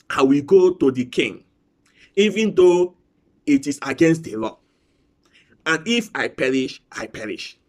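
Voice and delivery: scripture reading. Acted. Reads Esther scripture aloud.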